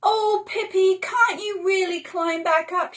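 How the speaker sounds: put-on girl asking worriedly; Annika asking. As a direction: ask with concern. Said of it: "she said".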